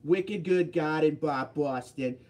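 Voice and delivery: slow, hammed-up Boston accent; put-on Bostonian accent, drawn out. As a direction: lean hard into a mock Boston accent. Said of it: "they make me do the Boston accent a lot".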